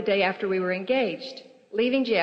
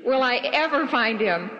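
tragic heroine sorrow; 3 semitones higher, 4 dB louder than usual. Acted. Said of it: "that's a little melodramatic".

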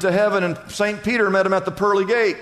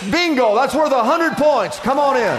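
joyful welcome; 3 semitones higher, 3 dB louder than usual. Acted. Peter's punchline welcome.

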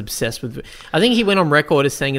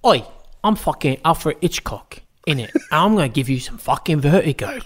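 mock Cockney Hitchcock. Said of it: "He goes".

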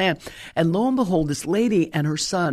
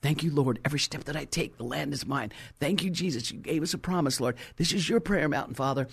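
soft, hushed prayer under the breath, much softer; quiet praying; 2 semitones lower, 6 dB quieter than usual. Retold or imitated. Preacher retelling her silent prayer while walking the land, softly. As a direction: murmur thanks to the Lord privately. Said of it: "I am praying in my spirit".

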